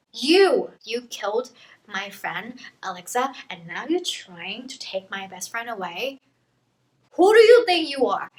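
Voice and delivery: hammed-up rage at the monster; mock angry outburst. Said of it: "she gets really mad".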